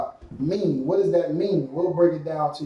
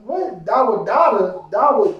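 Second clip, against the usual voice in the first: baffled newcomer stumbling over a name, pitch jumping on what; mock confusion at a strange name; confused newcomer; 2 semitones higher than usual. Student mocking a newcomer, puzzled by the name. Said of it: "you're like".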